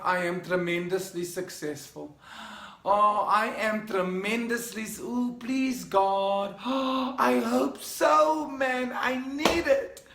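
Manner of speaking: slow, unsure, rising to a high begging whine; doubtful, pleading. Shown as a demonstration. Coach mocking a doubtful affirmation, high and pleading. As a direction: say it like you don't believe it. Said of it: "you don't wanna be saying to yourself".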